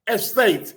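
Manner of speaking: ESTATE set apart and leaned on; stress on ESTATE. Real, not acted. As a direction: put the emphasis on the word ESTATE. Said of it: "putting the emphasis on the word estate".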